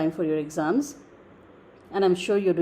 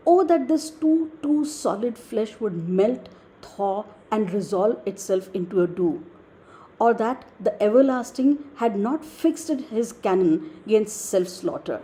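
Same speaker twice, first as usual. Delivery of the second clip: slow, drawn-out Shakespearean reading; measured dramatic soliloquy reading; emotional recitation. Acted. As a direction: recite it slowly, leaning into the opening words. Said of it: "being extremely emotional".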